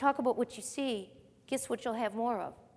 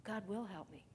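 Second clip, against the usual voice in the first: calm faith; 3 semitones lower, 13 dB quieter than usual. Retold or imitated. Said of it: "What did he talk like?".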